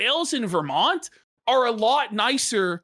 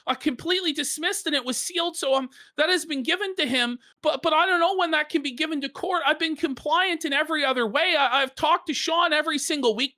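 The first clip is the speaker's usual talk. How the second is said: quoting Tarl; 5 semitones higher, faster than usual. Retold or imitated. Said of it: "So Taro goes".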